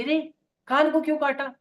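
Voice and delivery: mother crying out after her son bites her ear; shocked cry. Acted. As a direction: yelp at the bite in shock. Mother bitten on ear cries out.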